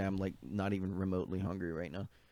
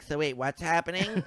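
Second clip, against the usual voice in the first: put-on confused girlfriend; 7 semitones higher than usual.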